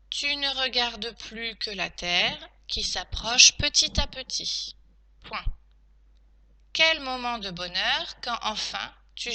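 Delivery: slow teacher dictating, punctuation named; careful, spaced-out phrases; dictation. Shown as a demonstration. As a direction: dictate it chunk by chunk.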